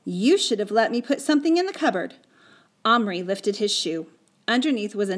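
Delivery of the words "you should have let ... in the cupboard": raised, accusing retort; defensive blame. Acted. Patrick blaming Omri for the mess, defensive retort. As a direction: throw the blame back, higher and louder. Boy blames his friend back.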